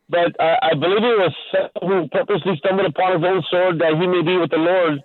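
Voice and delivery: radio show caller. Real, not acted. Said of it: "your voice is somewhat distorting".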